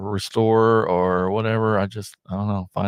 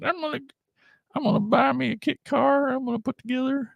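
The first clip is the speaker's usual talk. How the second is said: much higher, put-on twang as his boyhood self; kid self with accent; 3 dB quieter, faster than usual. Recalling his childhood dream of building a car, in a high put-on accent. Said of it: "I did not have that accent".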